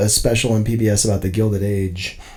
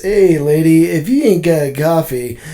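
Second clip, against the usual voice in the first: put-on New York accent; 3 semitones higher than usual. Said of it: "like, a New York accent?".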